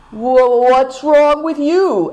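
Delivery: shivering, stammering voice; teeth chattering. A narrator's reading. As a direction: ask through chattering teeth. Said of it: "his teeth chattering".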